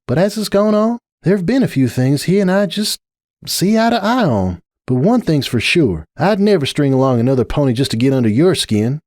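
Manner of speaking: a tired sigh of a friend, lightly voiced; Applejack. Applejack pleading with Rainbow, lightly voiced patient mare.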